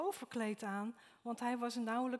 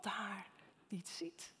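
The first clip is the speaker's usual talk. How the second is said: hushed whisper; 4 dB quieter than usual. Real, not acted. Preacher's hushed emphasis.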